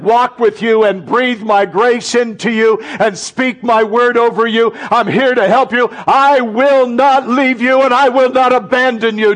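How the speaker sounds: comforting Jesus rising into a fervent vow. Acted. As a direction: speak as a loving Jesus, swelling with conviction. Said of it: "He's looking at you right now saying".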